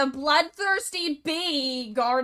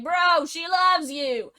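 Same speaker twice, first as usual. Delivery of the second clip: blurting it out; 4 semitones higher, 4 dB louder than usual. Acted. Mule reveals secret.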